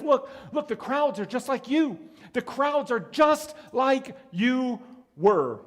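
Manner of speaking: Jesus voiced. Jesus voiced pointing out crowds.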